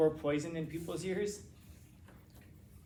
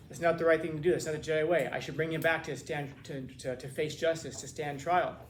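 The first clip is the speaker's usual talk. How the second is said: pleading protest; 3 dB louder than usual. Retold or imitated. Anakin protesting to villain.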